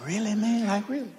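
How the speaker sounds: disbelief. Retold or imitated. Dad disbelieving son's refusal.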